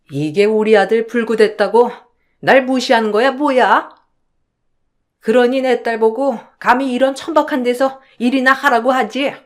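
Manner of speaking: put-on indignant older in-law berating someone; mildly hammed-up domineering matriarch; scolding mother-in-law. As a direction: lay into the daughter-in-law with contempt. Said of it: "시어머니는 그렇게 호통을 치셨고".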